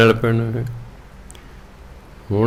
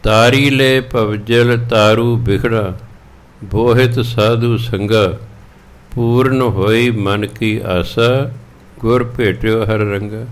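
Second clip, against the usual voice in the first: slow, drawn-out recital of sacred verse; slow scripture recitation; slower than usual. Acted. Preacher reciting scripture to the congregation, slow and measured. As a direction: intone each line slowly and reverently.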